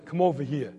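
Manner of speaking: father's restrained Brooklyn summons; understated Brooklyn impression; Brooklyn accent. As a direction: say it like a Brooklyn dad, unraised. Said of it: "in his best Brooklyn".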